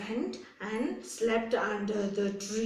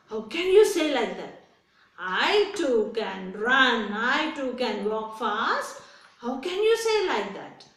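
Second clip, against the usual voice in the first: mildly hammed-up storybook anger; acted indignation; 3 dB louder than usual. Tortoise answers the rabbit's taunts, mock-indignant protest. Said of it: "This tortoise got angry".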